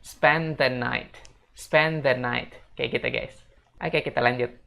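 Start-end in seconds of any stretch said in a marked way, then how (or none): 0.0-2.5 "spend the night" spaced out carefully, T at the end; careful, measured "spend the night"; pronunciation model. Shown as a demonstration. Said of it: "untuk kalimat ini pengucapannya".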